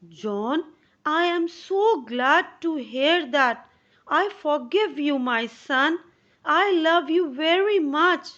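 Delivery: a hint of a tender mother forgiving; loving mother. Mother forgiving her son John, lightly voiced loving mother.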